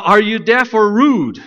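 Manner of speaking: loud, slow, high indignant demand; angry demand. A narrator's reading. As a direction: bark it out, losing his temper. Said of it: "demanded Brer Rabbit, losing his temper".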